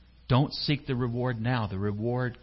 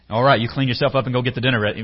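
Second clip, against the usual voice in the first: fast, louder dad-like order; dad's bark; 7 dB louder, faster than usual. Acted. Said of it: "that sounds like my dad".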